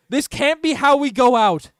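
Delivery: loud, slow protest; distressed outcry. Real, not acted. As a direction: cry out against losing, drawing it out. Streamer fearing playoff exit.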